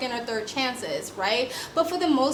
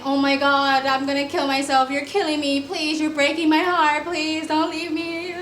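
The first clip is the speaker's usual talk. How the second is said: higher, louder, whiny begging; mock crying plea; 3 semitones higher, 3 dB louder than usual. Mimicking a woman begging her partner to stay, mock sobbing. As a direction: ham up a tearful plea to stay, voice rising. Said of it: "you cry and beg and".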